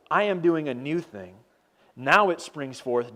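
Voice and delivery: slow, weighty verse, every word placed; unhurried solemn scripture; slow emphatic reading. Acted. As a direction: let each word land slowly. Verse read first time.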